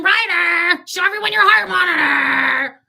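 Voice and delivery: loud, high, slow public announcement; mock announcement. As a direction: proclaim it to the whole room like a proud mom. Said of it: "I'm gonna announce to everyone".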